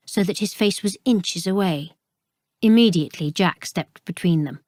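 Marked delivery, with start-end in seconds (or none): none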